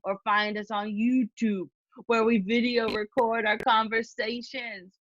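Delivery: put-on slow, drawn-out Boston accent, lightly done; a shaky attempt at a Boston Rob accent; an amateur Boston Rob impression while reading the podcast outro. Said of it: "with my Boston Rob accent".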